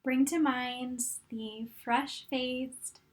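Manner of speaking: calm, unhurried meditation guide with long pauses; guided meditation. Real, not acted. Coach guiding fitness instructors to look back on their journey, calm meditation voice. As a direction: guide them gently through it, leaving room to breathe.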